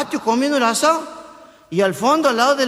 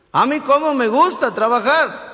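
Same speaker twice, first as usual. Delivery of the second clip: slow, smug bragging voice; boastful santiagueño; 3 semitones higher than usual. Retold or imitated. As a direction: brag it out like a show-off. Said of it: "el santiagueño agrandado que". (voz de santiagueño agrandado y lento)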